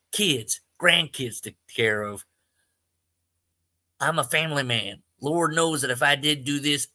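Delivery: lightly done George Kennedy in Cool Hand Luke; a hint of a fretful Southern convict. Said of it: "a George Kennedy from Cool Hand Luke".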